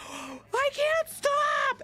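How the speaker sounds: high, drawn-out panicked yell; retold scream. Reliving the frog road to her chat, high panicked wail. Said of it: "I was, like, screaming".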